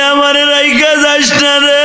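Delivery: high, shouted plea; desperate shouted plea; anguished cry. Acted. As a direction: yell after her across the river. Shouting after wife on bank.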